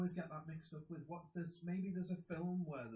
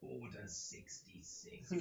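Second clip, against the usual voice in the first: whispered; 5 semitones lower, 6 dB quieter, much slower than usual. Pretend. Star Wars command quote.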